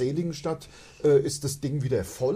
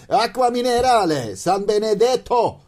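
put-on Italian accent; 7 semitones higher, 7 dB louder than usual. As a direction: read the label like an Italian. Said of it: "damit ich Italienisch lerne".

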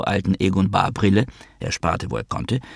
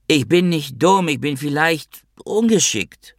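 high, plaintive self-defence; hurt, high-voiced retort; wounded protest; 8 semitones higher than usual. A narrator's reading. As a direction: protest in a pitched-up voice, slowing at the end. Wounded retort to mother's tirade.

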